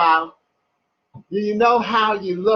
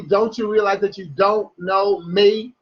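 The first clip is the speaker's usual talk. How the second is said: spoken-word poetry recital, measured phrases with pauses between; poem recital. Acted. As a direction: recite it like a personal challenge to the listener.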